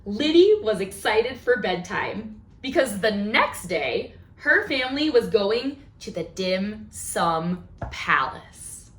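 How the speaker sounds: storybook read-aloud; reading to children. A narrator's reading. Teacher reading a story to the class, lively storybook voice. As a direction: read it like a picture book to little ones. Reads picture book aloud to kids.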